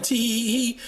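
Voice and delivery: a mocking imitation of a smug giggle; tee-hee him mockingly. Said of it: "why he over here laughing".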